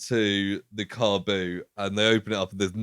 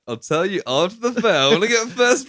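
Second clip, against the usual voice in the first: put-on high, louder whiny kid voice; bratty teen; 11 semitones higher, 6 dB louder than usual. Teen stalling the general, whiny and high. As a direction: play a stubborn boy who only cares about the fair. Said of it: "And Paul's like".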